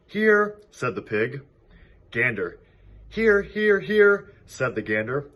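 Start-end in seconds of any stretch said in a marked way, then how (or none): 0.1-0.6 squeaky pig voice. A narrator's reading. Pig answers roll call squeakily. 3.1-4.3 high, loud honking repeats; honking gander voice. A narrator's reading. Gander answering the roll call, high honking triple. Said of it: "You sound like three ganders".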